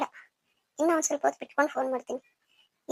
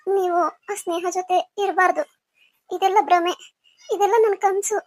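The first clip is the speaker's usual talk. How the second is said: crying; 3 semitones higher than usual. Acted. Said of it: "ಯಾಕ್ ಅಳ್ತಾ ಇದ್ಯಾ?".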